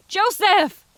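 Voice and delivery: high, far-carrying scream of his name; desperate scream. A narrator's reading. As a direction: reach him over the hooves. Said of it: "she screamed above the rushing wind".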